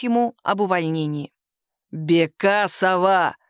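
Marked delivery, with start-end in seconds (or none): 1.9-3.4 slow, deep booming call of the surname; thundering boss. Acted. Boss drags Sima from the lift, thundering. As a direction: thunder the name like a verdict. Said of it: "загремел он".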